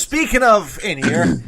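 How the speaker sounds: emphatic host segue; punchy announcer lead-in; announcer introduction. Acted. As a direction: swing into a big guest intro.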